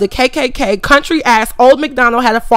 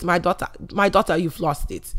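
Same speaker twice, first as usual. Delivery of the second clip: mock disappointed parent; 5 semitones lower, 8 dB quieter than usual.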